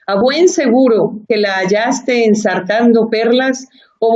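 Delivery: measured literary reading with lightly voiced dialogue; reading Don Quijote aloud. Shown as a demonstration. Host asks her to read Don Quijote, careful literary reading aloud. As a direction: read the classic passage aloud, savoring each line. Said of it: "¿serías tan amables de leernos ese fragmentito".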